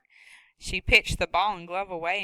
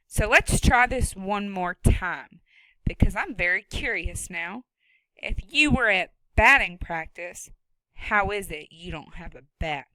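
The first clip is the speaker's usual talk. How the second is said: loud, sharp no-nonsense woman; stern farm woman; 5 dB louder than usual. Acted. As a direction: scold him from her own barn. Woman character voice.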